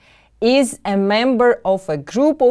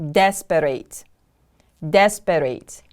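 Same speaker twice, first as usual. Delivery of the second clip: "Desperate" with DES stressed, falling away; careful teacher's "Desperate", weight on the first syllable; 3 semitones lower than usual. Shown as a demonstration. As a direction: model "Desperate" as DES-per-ate. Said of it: "The stress is on the first syllable".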